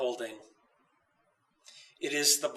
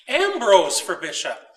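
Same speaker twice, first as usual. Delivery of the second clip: put-on child calling out; 3 semitones higher, 6 dB louder than usual. A narrator's reading. Child's cry retold in story.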